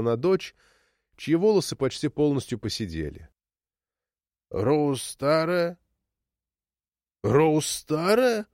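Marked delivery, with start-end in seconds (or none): 4.5-8.5 slow, incredulous questioning; surprised. A narrator's reading. Mother learning her daughter is old, surprised. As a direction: draw it out in wondering disbelief. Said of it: "повторила Нока удивлённым голосом".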